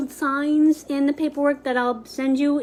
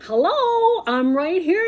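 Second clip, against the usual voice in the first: much higher, sing-song hello; high mock hello; 6 semitones higher than usual. Person left out calling to the other, high. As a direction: call out high like he's being ignored. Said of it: "and he'd be like".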